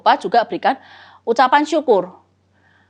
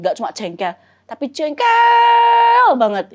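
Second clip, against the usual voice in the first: 1 venting complaint to God; 2 semitones higher than usual. Pretend. Sample venting prayer to God.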